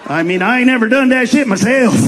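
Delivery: redneck drawl. Retold or imitated. A redneck in the crowd agreeing with the joke, lazy drawl. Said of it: "this is exactly how they react".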